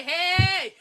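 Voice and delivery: a laughing, high goofy "Hey!"; mock leprechaun yell. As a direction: shout it like a cheeky leprechaun.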